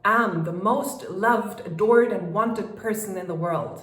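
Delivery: loud, firm declaration of self-worth; with conviction. Shown as a demonstration. Coach demonstrating a convinced affirmation, loud and firm. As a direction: proclaim it like you mean every word. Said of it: "like, conviction".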